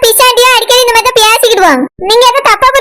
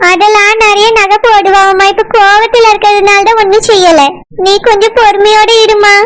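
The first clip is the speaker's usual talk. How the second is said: put-on low, slow old-woman voice, coaxing; calm her down like a kindly granny; pleading grandmother; 3 semitones lower than usual. (தாழ்ந்த, மெதுவான பாட்டி குரலில் சமாதானம்)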